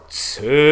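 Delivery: "coeli" with a rounded ö; ö vowel. Shown as a demonstration. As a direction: say "coeli" like German schön. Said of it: "that ö".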